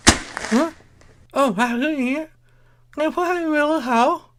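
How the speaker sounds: very high surprised huh; high muffled surprise; startled squeak. Acted. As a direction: squeak in confusion. Twilight reacts, chalk mouth.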